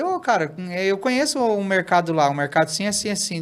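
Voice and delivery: high, lively recognition; light up as you recognise it; telling the patient he knows that shop, excitedly. Retold or imitated.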